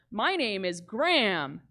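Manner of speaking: quietly slow reply from the other fan; second fan. Retold or imitated. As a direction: answer simply and slowly. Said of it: "the second guy went".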